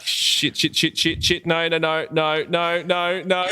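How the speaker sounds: high, rapid-fire repeated panic; comic spiralling alarm; mock freak-out. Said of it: "like, freaking out, like".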